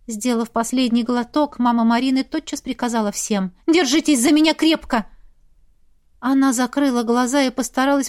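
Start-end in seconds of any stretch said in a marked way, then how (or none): 3.7-5.0 loud commanding call; firm order. Acted. Mother orders everyone to hold on tight. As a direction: command them all.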